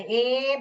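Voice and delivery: ए held as a long vowel; long A sound. Shown as a demonstration. Teacher showing students the long sound, ए drawn out. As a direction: stretch ए out to show the long sound. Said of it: "long sound बोल रहा है".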